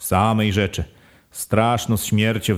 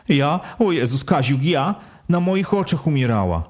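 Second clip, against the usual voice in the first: higher, pleading wife's voice; wife crying out; 4 semitones higher than usual. Acted. Wife answering her husband's blame, higher pleading. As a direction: protest your innocence, higher. Wife defends herself in quarrel.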